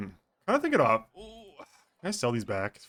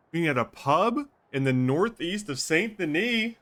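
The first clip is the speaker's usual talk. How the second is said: letter read; 7 semitones higher than usual. Acted. Reading the letter's meeting place.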